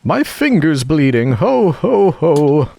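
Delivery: the Queen shrieks about her bleeding finger, screaming high. A narrator's reading. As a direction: shriek the ho like a steam whistle. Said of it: "Her screams were so exactly like the whistle of a steam engine".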